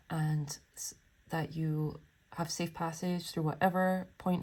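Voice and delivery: heartfelt blessing. Real, not acted. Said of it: "I felt the need to say that".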